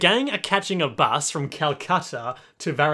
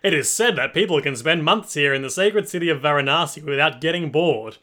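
lightly voiced documentary narrator, slowing on the last words; mock narrator exposition. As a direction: read it like a solemn nature documentary. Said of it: "the narrator's brilliant exposition".

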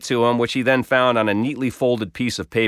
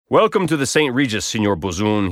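formal intoning. Retold or imitated. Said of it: "he intoned formally".

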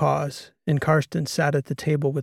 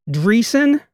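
sharp rising, louder cry of a name; startled recognition; 9 semitones higher, 8 dB louder than usual. A narrator's reading. Karsten recognizing Karolina at the table, startled. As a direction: caught off guard by who's sitting there.

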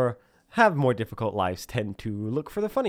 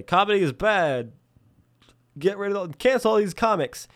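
mock outrage; 8 semitones higher than usual. Voicing angry cancellers.

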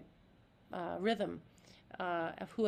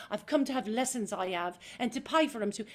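a more worried, pressed Cockney line; stressed Eliza; faster than usual. Shown as a demonstration. Actress demoing the wrong, stressed Eliza reading, worried Cockney. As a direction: crunch in with worry. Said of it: "as opposed to".

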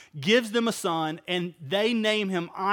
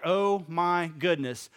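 slow, drawn-out "Oh, my goodness"; imitating someone slowly taking in big news; daunted reaction; 2 semitones lower, slower than usual. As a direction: let it sink in word by word. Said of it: "that would be a pretty serious thing".

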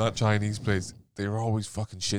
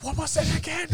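high, puzzled woman voice. Retold or imitated. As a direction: ask it in a high confused voice. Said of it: "She's like".

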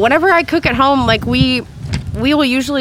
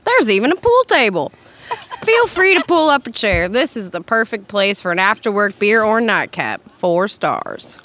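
put-on southern accent. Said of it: "I might go down south for this one".

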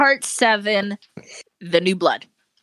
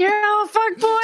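mock Holden Caulfield; 11 semitones higher than usual. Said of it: "He's like the Holden Caulfield now".

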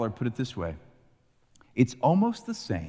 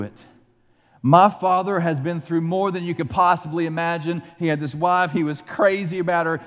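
louder, impassioned pleading; begging plea; 5 semitones higher, 4 dB louder than usual. Retold or imitated. Judah begs Joseph to spare Benjamin, louder and impassioned. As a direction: plead for your father's life. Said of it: "And he begs".

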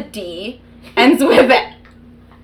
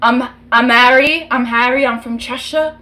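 quick British accent, imitating a pop singer; fast British accent. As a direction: rattle off the Cheshire lines fast in British. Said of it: "only British accents I know are from the four different members of One Direction".

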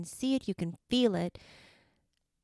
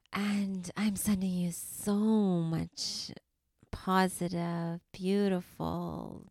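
tender blessing; slower than usual. Real, not acted. Host sending love and light to her listeners, slow and tender. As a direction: pour it out slowly like a blessing.

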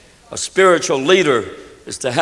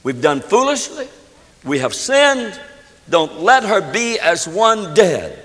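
understated desperate plea, pitched up; desperate cry; 3 semitones higher than usual. Acted. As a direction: plead with mild desperation. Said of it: "It was a desperate cry".

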